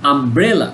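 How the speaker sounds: আমব্রেলা with BRE pushed harder; stress on BRE. Shown as a demonstration. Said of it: "কিসের উপর জোর দিচ্ছে".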